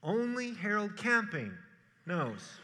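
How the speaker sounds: playful fake recitation; mock misquote. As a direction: sly joke ending with a laugh. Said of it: "No, but my Father only".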